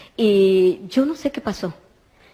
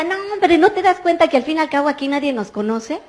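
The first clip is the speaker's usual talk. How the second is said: excited urging; 4 semitones higher, faster than usual. Retold or imitated. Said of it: "me decía".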